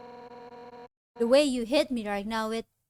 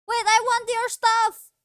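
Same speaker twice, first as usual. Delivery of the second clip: excited; 10 semitones higher, 5 dB louder than usual. Real, not acted. Greedy outburst at game.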